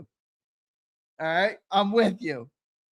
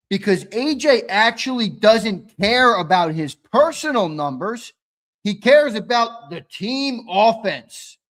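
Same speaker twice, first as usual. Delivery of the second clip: mocking Twiz; 2 semitones higher, 4 dB louder than usual. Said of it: "Twiz tried to go as far as to say".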